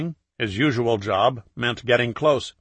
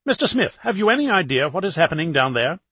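lightly voiced eager reporter, a bit higher; a hint of a pushy TV reporter; 5 semitones higher than usual. Reporter asks questions.

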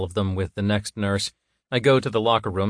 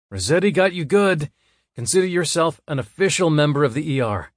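higher, louder voiced coworker; male coworker voice; 7 semitones higher, 5 dB louder than usual. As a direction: tease him like a buddy.

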